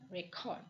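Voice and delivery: record with the weight on the end, re-CORD; stress on second syllable. Shown as a demonstration. Lecturer correcting not first but second, record stressed on the second syllable. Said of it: "not first".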